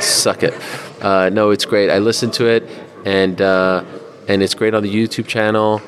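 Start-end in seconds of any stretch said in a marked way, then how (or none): 0.0-0.5 a mock whisper, breath only; whispered tease. Shown as a demonstration. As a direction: hiss it playfully under the breath. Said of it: "teasing Troy".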